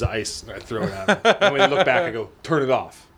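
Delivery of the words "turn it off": macho voice. Retold or imitated. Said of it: "I use my manliest voice".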